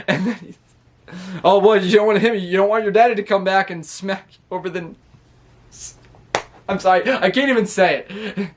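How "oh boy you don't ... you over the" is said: raised, teasing taunt; mock taunting L A Knight. L A Knight mocking the cousins, a raised cocky jeer.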